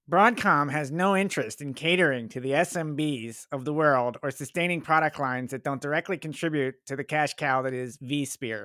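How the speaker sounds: lightly voiced imitation of Ned; Ned impression. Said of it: "I'm gonna do my best Ned impression".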